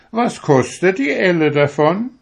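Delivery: high, loud sneering turkey; high, loud turkey mocking the stork. A narrator's reading. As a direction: sneer at the stork's thin legs. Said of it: "sagte der Kalekute".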